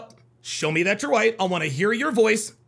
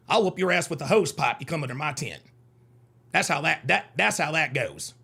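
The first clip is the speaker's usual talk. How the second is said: Southern accent. Shown as a demonstration. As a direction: play a Southern good old boy threatening. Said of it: "Good accent".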